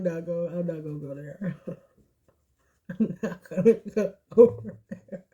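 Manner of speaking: words broken up by real laughter; laughing refusal. Real, not acted. Reader stopping short of politics, laughing.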